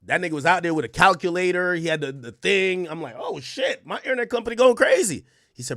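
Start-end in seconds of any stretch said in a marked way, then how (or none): 3.2-5.2 mock excited. Mock excited reaction to tech.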